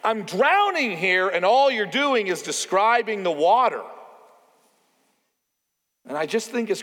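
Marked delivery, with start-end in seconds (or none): 0.0-3.8 Jack Nicholson crying out. Retold or imitated. Quoting a movie line to the congregation, crying out. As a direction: cry out in mild mock desperation. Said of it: "Jack Nicholson finally just cries out".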